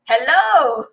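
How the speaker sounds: big, high, loud hello; calling out hello. Real, not acted. Host hailing South African friends, calling out. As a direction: holler a joyful greeting.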